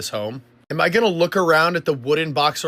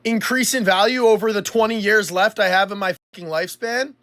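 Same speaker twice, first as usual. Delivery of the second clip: exasperated, higher and rising in force; incredulous retort; 6 semitones higher, 3 dB louder than usual. Real, not acted. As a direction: throw the argument back in disbelief. Angry rebuttal of the mocked argument.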